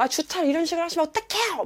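high-pitched mock scolding; exasperated, pitch shooting up; imitated angry complaint. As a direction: act out an outraged parking complaint. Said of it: "다짜고짜 막 화를 내면서".

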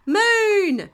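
high, loud, drawn-out shout; excited child's interrupting cry; eager shout. A narrator's reading. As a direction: burst in with the word, stretched out. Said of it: "shouted Pedro Pony".

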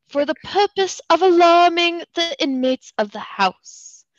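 a shaky attempt at a British accent, reading an old letter; bad British accent. Reading the letter aloud to a friend, in a bad British accent. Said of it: "you're trying to do a British accent".

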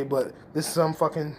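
ordinary delivery

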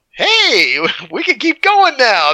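relieved marines joking after the bunker burns; cheerful laughing relief. Retold or imitated. Marines cheer after the tank clears the bunker, laughing. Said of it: "the guys all just get up and go".

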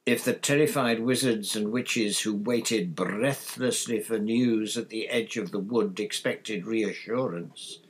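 measured, emphatic newspaper read; reading article aloud. A narrator's reading. Father reading a damning article to family, emphatic recital. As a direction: read it out with weighty, deliberate stress.

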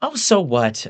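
high-pitched weary dismissal; sighing. A narrator's reading. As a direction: sigh it off in a woman's voice. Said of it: "Evelyn sighs".

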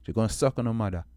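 put-on lightly done Jamaican accent, dismissive; a hint of Jamaican patois, brushing them off. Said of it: "and my Jamaican accent".

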